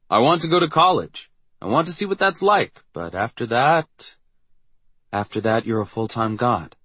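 bright, rising hopes; eager. Acted. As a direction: say it like a dream come true. Jared's quote, excited plans.

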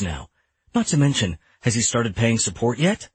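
mildly heated string of challenges; indignant. Acted. Father challenges ex-wife over the biological father's absence, indignantly. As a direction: press each question as an accusation. Acted quarrel, blood pressure rising.

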